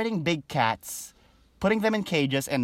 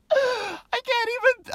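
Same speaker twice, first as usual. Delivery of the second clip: much higher, slow, laughing out the words; breaking into laughter, can't finish; real giggling fit; high helpless laugh; slower than usual. Real, not acted. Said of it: "I can't help but laugh".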